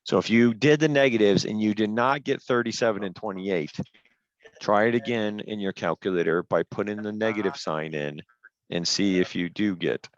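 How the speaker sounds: robot voice from headset delay; robotic, glitchy headset sound. Real, not acted. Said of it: "Do I sound like a robot".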